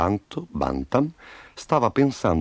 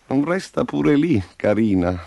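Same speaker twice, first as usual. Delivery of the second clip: sweet-talking; 4 semitones higher than usual. Acted. Rooster sweet-talks his favourite hen.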